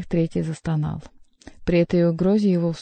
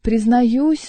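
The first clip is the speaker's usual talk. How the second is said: higher, louder nasal confession; mock-penitent, pitched up; nasal whine; 5 semitones higher, 6 dB louder than usual. A narrator's reading. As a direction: intone it through the nose. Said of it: "загнусавил Шут".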